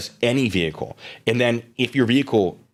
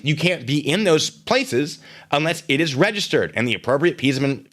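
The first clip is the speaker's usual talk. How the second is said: ordinary talk, nothing marked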